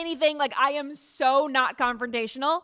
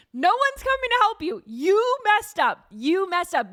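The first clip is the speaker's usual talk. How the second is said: high, loud sing-song gloating at them; mock taunt; 8 semitones higher, 3 dB louder than usual. Teasing the couple banging on the door, high mocking taunt. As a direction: rub it in like a smug kid.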